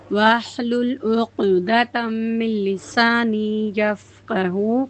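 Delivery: slow, measured prayerful recitation; slow Arabic recitation. Real, not acted. Teacher opens Quran class with a slow, measured prayer recitation. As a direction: chant each phrase slowly and evenly.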